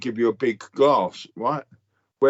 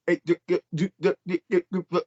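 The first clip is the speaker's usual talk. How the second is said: mock stutter; 5 semitones higher than usual. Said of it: "this geezer's got a fucking stutter".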